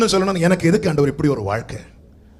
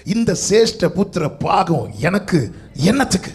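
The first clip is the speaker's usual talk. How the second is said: slow, drawn-out mock scorn as Esau; lightly acted Esau shrugging off the birthright; slow mocking voice with சிரேஷ்ட stretched; Esau's scornful question; slower than usual. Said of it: "அவனுடைய வாயிலிருந்து வரக்கூடிய வார்த்தை".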